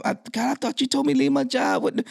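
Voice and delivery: high, panicked plea to God; freaking out. Retold or imitated. Man who quit his job crying out to God, high panic. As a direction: cry out high to God in alarm. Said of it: "I'm going freaking out".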